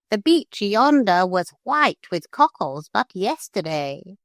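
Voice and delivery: high, grateful parrot; a bird thanking friends. A narrator's reading. Parrot thanks the gulls and points to the beach, high.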